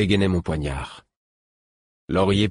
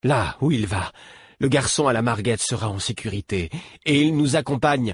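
lightly voiced companion; 6 semitones higher than usual. A narrator's reading. Another character voiced.

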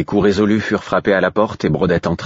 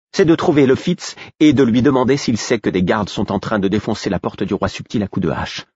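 somewhat higher, hurried report; lightly voiced servant bringing alarming news; urgent maid; 4 semitones higher than usual. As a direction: rush the news.

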